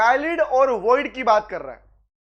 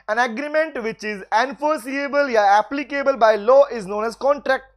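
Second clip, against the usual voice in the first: word by word, very slow; slow dictation; much slower than usual. Shown as a demonstration. Teacher dictating the contract definition to students, very slow. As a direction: lay out each word so they can write it.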